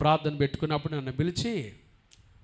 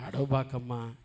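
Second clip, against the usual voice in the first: gentle comfort; 3 semitones lower than usual. Shown as a demonstration. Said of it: "కొంతమంది మాటల్లోనే అట్టుంటది".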